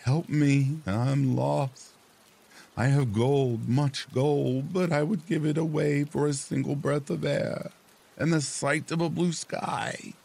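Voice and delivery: high, pleading call for help; lost wife calling. Acted. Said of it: "the fishwife called".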